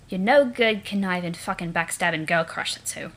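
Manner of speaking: lightly voiced snooty Eridan; a hint of a sneering troll prince. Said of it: "And now my Eridan voice".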